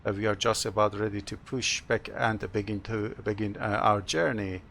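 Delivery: pilot addressing passengers over intercom; captain's PA announcement. Pretend. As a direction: welcome the cabin as the captain. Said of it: "Have a short announcement".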